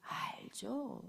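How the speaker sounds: very slow, hushed answer; whisper. Real, not acted. Preacher whispering the answer to the congregation. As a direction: breathe the answer out slowly.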